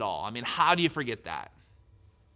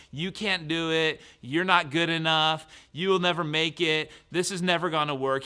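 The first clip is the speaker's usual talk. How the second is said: higher, mildly raised accusing voice; mock yell of a taunting enemy; imitated yelling; 4 semitones higher, 4 dB louder than usual. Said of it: "He's yelling".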